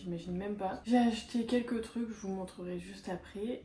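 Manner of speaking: talking through a mouthful; words round a bite of food; chewing while talking. Real, not acted. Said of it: "C'est dur en vrai de parler en mangeant".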